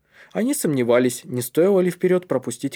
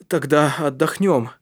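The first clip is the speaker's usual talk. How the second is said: slow, slightly raised voice; deciding leader; 3 semitones higher, 4 dB louder than usual. A narrator's reading. Калиб decides the boys will rest, decisive. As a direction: settle it slowly for the group. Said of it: "решил Калиб".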